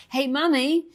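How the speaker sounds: put-on high, loud child calling out; child calls to Mummy from the slide; little kid calling. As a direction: squeal for Mummy to watch. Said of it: "when they go".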